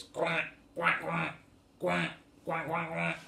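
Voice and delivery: short repeated quacks; duck quacking. Acted. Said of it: "duck with lots of ducklings says".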